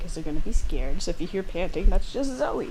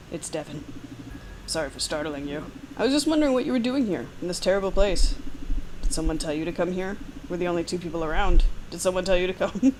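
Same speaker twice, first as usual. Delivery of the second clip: lightly voiced Devon. Devon startling the player at the star, creepy friendly. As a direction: sound friendly but suspicious.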